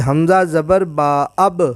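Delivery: slow spelling drill, the ب sounded at the end of اب; joined jazm letter. Shown as a demonstration. Teacher shows students the sound of با coming out, joined reading. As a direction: spell out حمزہ زبر با, then join into اب with an audible b. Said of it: "اب یہ با کی آواز نکلی ہے".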